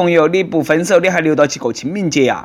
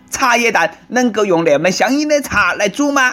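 higher-pitched mock fury; angry outburst; 5 semitones higher than usual. Husband raging at his wife over costly tea, mock-angry. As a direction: scold in put-on outrage. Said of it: "大怒道".

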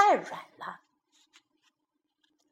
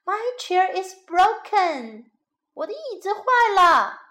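put-on baby bear crying out; 5 semitones higher, 3 dB louder than usual. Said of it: "熊宝宝又叫起来".

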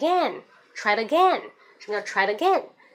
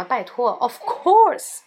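slow, drawn-out, louder of course; exasperated; 5 dB louder, much slower than usual. Shown as a demonstration. Exasperated friend, slow drawn-out of course. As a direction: come on, roll it out. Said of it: "你在问什么？".

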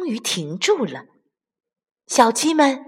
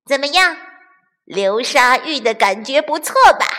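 mocking; 3 semitones higher than usual. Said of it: "鼻涕虫嘲笑道".

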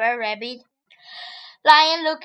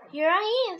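higher, light rabbit voice; 5 semitones higher than usual. Acted. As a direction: pipe up brightly. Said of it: "said clever rabbit".

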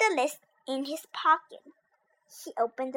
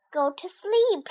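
shouted; 6 semitones higher, 3 dB louder than usual. Acted. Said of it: "shouted Toad".

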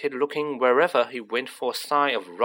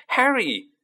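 higher, louder repeat of the call; yelled name again; 12 semitones higher, 4 dB louder than usual. A narrator's reading. Friends spotting Harry across Diagon Alley, yelling louder. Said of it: "someone yelled his name".

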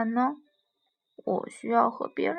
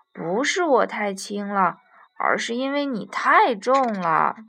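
louder, emphatic storybook puppy; arguing puppy; 3 semitones lower, 6 dB louder than usual. Acted. Puppy blames the giraffe's weight, arguing back. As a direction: argue back with swooping emphasis.

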